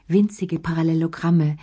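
ordinary delivery, nothing marked

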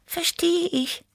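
high cat voice. Acted. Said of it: "gab Tibi zu".

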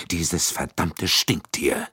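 a slow, bitter curse spat out. Acted. Young American cursing his murdered employer, slow bitter curse. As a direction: let the disgust drag each word out slowly. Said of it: "fluchte er".

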